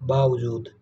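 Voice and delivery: बावजूद with a v, baavjood; बावजूद with baav as first syllable; correct pronunciation. Shown as a demonstration. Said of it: "क्या होता है?".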